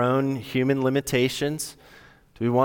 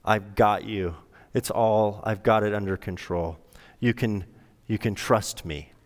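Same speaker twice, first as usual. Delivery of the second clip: tender God; 2 semitones lower than usual. Retold or imitated. God comforts the lost listener, gentle and reassuring. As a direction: soothe a lost child as God would. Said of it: "who says to us".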